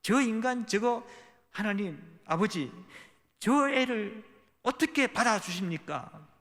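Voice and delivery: slow, high-pitched indignant protest; acted outrage, words dragged out and pushed upward; pent-up resentment. Elder son protesting to his father about his brother, resentful. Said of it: "마음속에 울분이 올라왔습니다".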